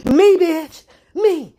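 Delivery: loud, high, indignant bursts; acted affronted shout; mock outraged retort. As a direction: throw it back, offended.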